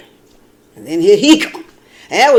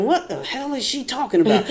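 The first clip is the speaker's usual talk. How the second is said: inner voice; 4 semitones higher, 6 dB quieter than usual. Retold or imitated. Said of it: "I'm thinking".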